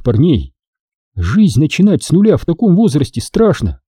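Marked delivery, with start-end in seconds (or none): 1.1-3.8 muttering woman. Acted. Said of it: "пробормотала женщина".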